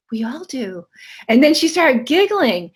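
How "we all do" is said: put-on whispered gently, like comforting a child; barely voiced, tender reassurance; soft compassionate whisper. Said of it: "said very compassionately in a very soft voice".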